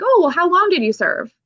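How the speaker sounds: high, sing-song mock of a doubting stranger; mock doubter. Mocking people who doubt she served, in a high sing-song voice. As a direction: parody a condescending question.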